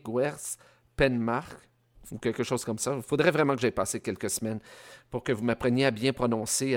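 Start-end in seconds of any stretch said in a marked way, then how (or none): 0.0-1.6 Guers Penmark sounded out slowly, syllable by syllable; slow, careful try at a hard Breton name; very slow, unsure spelling-out of Guers Penmark; halting Breton attempt. Shown as a demonstration. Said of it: "je vais avoir encore de la difficulté".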